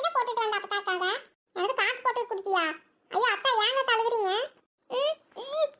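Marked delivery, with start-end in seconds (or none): 4.9-5.7 higher-pitched acted sobs; wordless crying whimper, played for the skit; tearful sobbing. Grandmother reacting to spicy coffee, acted sobbing. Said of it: "ஏன் அழுகுற இப்படி".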